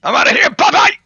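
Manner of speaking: squeaky high cheerful farewell; high mock goodbye voice. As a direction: chirp it high and loud, fleeing. Voicing the fleeing character.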